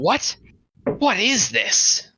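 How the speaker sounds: high, drawn-out hammy game line; exaggerated baffled inflection, pitched well up; Barry impression. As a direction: imitate the game hero, stretching WHAT IS THIS slowly. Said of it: "with that exact inflection".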